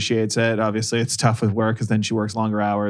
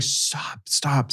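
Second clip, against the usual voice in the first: hushing; 3 semitones higher, 6 dB quieter than usual. Retold or imitated. Hushing son in library.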